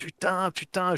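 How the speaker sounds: weeping hard, high sobbing outburst. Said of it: "pleurer à chaudes larmes en disant".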